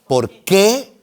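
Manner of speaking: "por qué" lifted at the end on QUÉ; contrasting stress demo. Shown as a demonstration. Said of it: "Hay que diferenciar entre por qué".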